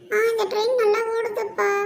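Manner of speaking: put-on high, loud kid voice; child delighted with a toy train; happy child. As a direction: pipe up like a playing child. Child voice at play.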